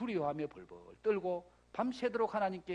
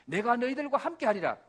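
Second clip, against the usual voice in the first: firm, raised divine proclamation; emphatic promise; 4 semitones higher, 6 dB louder than usual. Acted. God assuring Israel He will go along, emphatic. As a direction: declare the promise out strongly. God's promise repeated forcefully.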